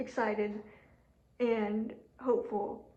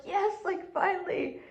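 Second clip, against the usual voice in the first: excited; 4 semitones higher than usual. Retold or imitated. I was all excited and hyped up.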